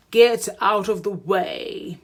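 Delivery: loud yell to clear the road; sheep yelling. Acted. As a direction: shout it out like an angry driver. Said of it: "he yells with a beep".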